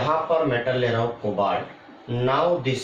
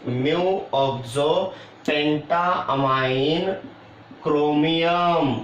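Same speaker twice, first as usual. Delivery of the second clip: measured, stretched-out words; slow dictation; slower than usual. Real, not acted. Teacher writing the complex's name for students, slow dictation. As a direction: dictate slowly, word by word.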